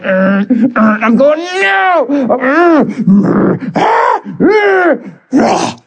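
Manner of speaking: groans breaking into a high, wailed no; imitated frustrated groans. Teenager fighting the truth inside him, mock screaming groans. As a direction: act out straining, wordless frustration. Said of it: "Screamed at it like a maniac".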